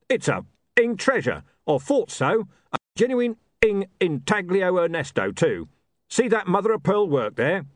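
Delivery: loud, coarse gangster voice; a thug excited by treasure; loud rough thug. Acted. Mister Tulip admires antique.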